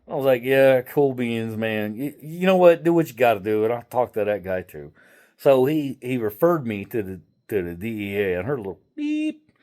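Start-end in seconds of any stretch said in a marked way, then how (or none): 0.4-4.9 sarcastic dismissal. Retold or imitated. Dismissive reply to scammer.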